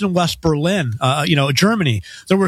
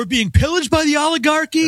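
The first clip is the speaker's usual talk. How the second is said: lightly done Bernie voice, higher pitch; Bernie Sanders accent; 9 semitones higher than usual. Retold or imitated. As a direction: ham up an old senator's rally cry, pitched up. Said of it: "I'll use a Bernie Sanders accent".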